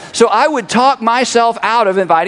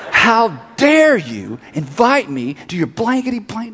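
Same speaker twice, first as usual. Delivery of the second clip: mock hostile stranger; 4 dB quieter, much slower than usual. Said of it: "She said".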